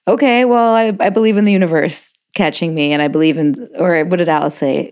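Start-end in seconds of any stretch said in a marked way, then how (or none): 0.1-3.7 mocking voice. Mocking a believer's reply.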